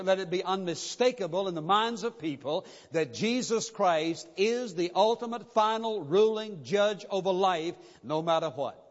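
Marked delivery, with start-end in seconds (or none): 2.9-7.8 ULTIMATE, FINAL, RULING each drawn out with weight; slow, deliberate stress on ULTIMATE, FINAL and RULING; emphatic affirmation. Shown as a demonstration. Preacher making it unmistakable to the people, emphatic stress on ULTIMATE, FINAL, RULING. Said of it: "make that very emphatic".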